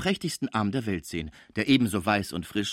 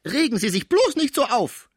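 high, urgent exclamation; alarmed cry; 7 dB louder than usual. A narrator's reading. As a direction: cry out to calm an agitated patient. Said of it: "rief die Cibot". (erschrockener, lauter Ausruf)

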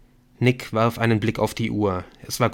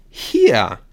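a sudden louder call of "Hier"; 6 dB louder than usual. A narrator's reading. Viktor calls out a meeting place to friends, louder. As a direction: call it out to the others. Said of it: "rief Viktor".

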